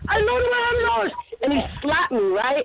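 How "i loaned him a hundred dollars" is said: high, small innocent voice; a squeaky, innocent confession; sheepish admission. Retold or imitated. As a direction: play it meek and guilty. Her own reply to angry boyfriend.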